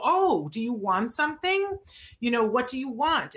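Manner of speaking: put-on cheerful parent coaxing a toddler; bright questioning to a child. Shown as a demonstration. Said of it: "and you go".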